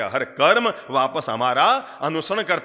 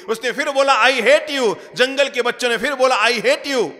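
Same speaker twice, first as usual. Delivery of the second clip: loud; 8 semitones higher, 4 dB louder than usual. A narrator's reading. Shouting match with the echo.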